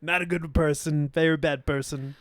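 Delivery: hammed-up president grumbling about a foreigner; Trump impression.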